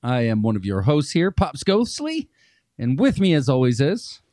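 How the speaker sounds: hammy spooky horror host; jack o lantern voice. Acted. Spooky podcast host persona intro.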